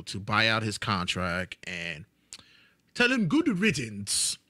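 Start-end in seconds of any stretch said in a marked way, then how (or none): 2.9-4.4 loud. Acted. Promo insult.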